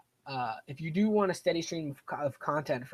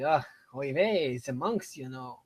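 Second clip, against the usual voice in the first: put-on slow mixed French Jewish accent; 4 dB louder, slower than usual. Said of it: "a French and a Jewish accent".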